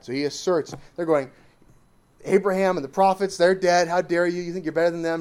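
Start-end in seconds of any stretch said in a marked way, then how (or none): 2.2-5.2 indignant challenge. Retold or imitated. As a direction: throw the accusation back at him. Jews challenging Jesus, acted quarrel.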